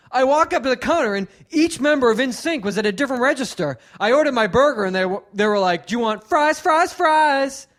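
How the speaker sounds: loud, high, mocking a corny comedian's bit; mocking hack comic. Comic mocks a hack's Burger King joke, loud and mocking. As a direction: ham up the bad joke, voice climbing. Retelling warm-up guy's hacky joke.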